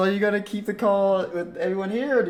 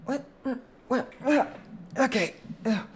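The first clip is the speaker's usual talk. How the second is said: lightly voiced auntie on a charm call; 8 semitones higher than usual. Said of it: "you hear a voice goes".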